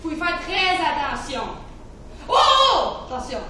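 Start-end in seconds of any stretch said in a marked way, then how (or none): 2.3-3.4 high, loud "oh" warning; loud, high exclamations; alarmed warning. Acted. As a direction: call out to stop someone. Warning someone to be careful.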